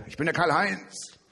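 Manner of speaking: high chirpy parrot. Acted. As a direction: pipe up like a parrot. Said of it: "Sagt der Papagei".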